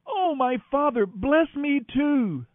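Esau's slow, heartbroken plea; pleading. A narrator's reading. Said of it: "Esau pleaded".

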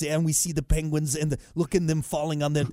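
put-on lightly accented German documentary narrator; Herzog. Host retelling penguin film for co-host, Herzog impression. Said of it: "he's got that same Arnold".

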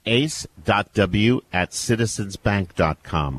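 measured, deliberate dictation; slow, careful. Real, not acted. Host repeats guest's email for radio listeners, slow and careful. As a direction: spell out the address slowly.

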